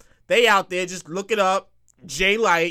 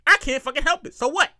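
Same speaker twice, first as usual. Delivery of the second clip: higher-pitched defiant retort; 6 semitones higher than usual. Real, not acted. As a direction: push back, pitched up and unapologetic. Defends his loud voice against complaints.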